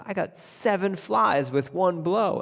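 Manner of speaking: proud disbelief, drawn out; amazed tailor. Acted. Tailor staring at the dead flies, amazed.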